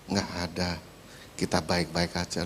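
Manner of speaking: easygoing husband shrugging it off; calm husband. Acted. Husband answering the pastor, lightly voiced unbothered.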